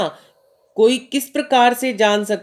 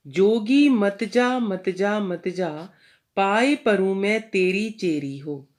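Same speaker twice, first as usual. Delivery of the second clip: poem recitation. Acted. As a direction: recite the couplet with devotion. Teacher recites Meera's verse.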